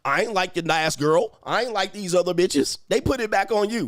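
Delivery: acted-out defensive comeback; imitating defensive woman. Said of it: "well, she be like".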